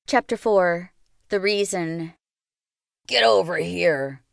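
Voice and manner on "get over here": sharp command. A narrator's reading. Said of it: "cut through the air like the twang of a ricocheting bullet".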